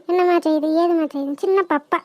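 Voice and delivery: muttered mimicry of a fussing aunt; sarcastic baby-fussing aside; mock coddling. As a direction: parody someone babying a child, under your breath. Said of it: "அவளை தொட்டில போட்டு கொஞ்சி".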